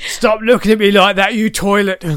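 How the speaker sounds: London gangster accent. Shown as a demonstration. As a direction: put on a London hard-man accent. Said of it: "it was London, j-, gangster".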